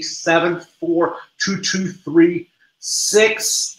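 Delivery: reciting digits backwards. Shown as a demonstration. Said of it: "let me see if I can say it backwards now".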